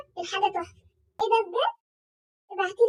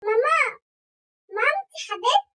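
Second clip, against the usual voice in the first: dripping sweetness; 3 semitones higher, 4 dB louder than usual. Acted. Sweet-talking mom for money.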